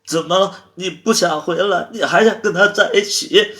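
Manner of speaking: loud, high wailing questions; hysterical, crying reproach; tearful accusation. Acted. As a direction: demand it through tears, voice climbing. Crying lover accuses over the phone.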